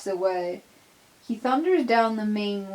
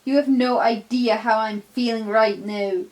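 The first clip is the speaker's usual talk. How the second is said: loud, hurt outburst; bitter anger; 5 dB louder than usual. Acted. Donald raging at his crew, loud and bitter. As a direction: lash out at the crew.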